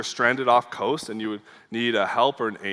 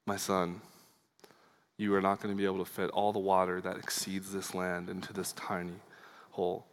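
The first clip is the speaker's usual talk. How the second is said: retold calm reply, slightly lowered voice; 5 dB quieter than usual. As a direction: answer with understated calm, as if to a child. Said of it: "Augustine says very calmly".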